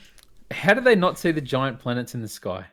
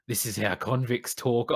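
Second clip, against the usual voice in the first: mock convict voice; 5 dB quieter than usual. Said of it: "is it written to be like".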